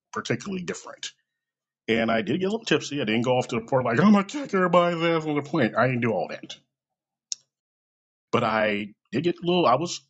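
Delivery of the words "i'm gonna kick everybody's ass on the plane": higher, hammed-up belligerent holler; playful over-the-top threat; mock drunken boast. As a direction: pretend to be a rowdy drunk picking a fight. Acted drunken boast he denies.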